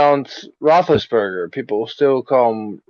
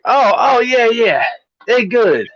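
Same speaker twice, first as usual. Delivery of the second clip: high-pitched fan impression; high, put-on sports fan voice; excited parade fan; 9 semitones higher than usual. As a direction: imitate an interviewed fan, pitched way up. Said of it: "clip of a guy who was asked".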